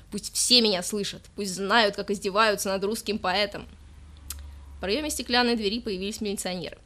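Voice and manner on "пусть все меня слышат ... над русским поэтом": loud, slow, proclaiming to the room; drunken declaiming. Acted. Drunk poet protests to everyone, loud and slow. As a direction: let the whole station hear your grievance.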